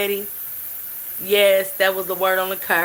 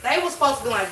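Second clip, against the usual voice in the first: usual speaking voice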